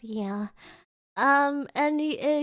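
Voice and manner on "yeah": low, soft retold reply; quiet, offhand imitated yeah. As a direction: answer low and understated. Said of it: "And he goes".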